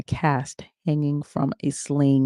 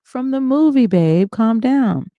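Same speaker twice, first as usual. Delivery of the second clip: desperate calming; 8 semitones higher, 4 dB louder, slower than usual. Acted. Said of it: "trying desperately to calm him down".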